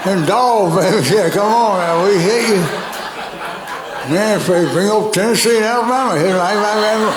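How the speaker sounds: hyped-up trash-talking jock; Georgia football player. Retold or imitated. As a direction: pump it up like a fan hollering. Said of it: "My imitation of a Georgia football player".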